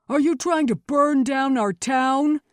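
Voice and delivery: high, loud outraged shout; angry accusation. A narrator's reading. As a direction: yell it as a furious accuser. Angry townsman confronts the accused.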